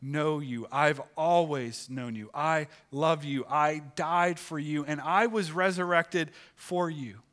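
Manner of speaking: lightly voiced Jesus assuring his love; loving assurance. Jesus telling the congregation he loves them, earnest. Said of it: "This is him saying".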